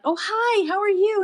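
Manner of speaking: put-on high, sweet baby talk; greeting the cat. Mom greeting the new cat in high baby talk. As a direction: coo up high at a new kitten. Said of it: "and I'm like".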